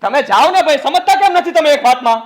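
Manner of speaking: heated shouting. Acted. Mother and son shouting match.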